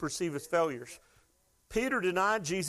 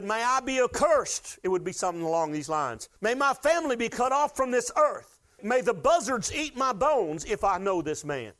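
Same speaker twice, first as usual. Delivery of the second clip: emphatic cursing; 5 semitones higher than usual. Acted. Peter cursing his denial.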